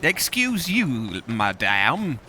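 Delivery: slow attempt at an American accent. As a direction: mimic an American, drawing the words out. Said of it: "That was my best American accent".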